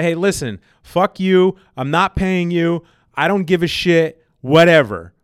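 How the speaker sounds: mock rude caller. Caller telling the mortgage company off, mock rude. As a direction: play the entitled caller cursing out the bank. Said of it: "as an asshole".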